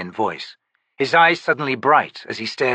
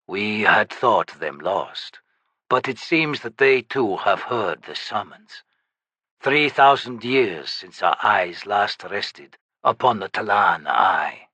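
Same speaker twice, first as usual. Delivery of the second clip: lightly lowered ancient shaman voice; undead shaman; slower than usual. Acted.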